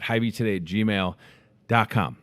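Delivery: out of breath. Real, not acted. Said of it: "I'm running out of breath".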